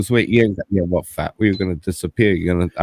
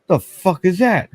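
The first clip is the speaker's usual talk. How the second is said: startled; 10 semitones higher, slower than usual. Retold or imitated. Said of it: "And I'm like".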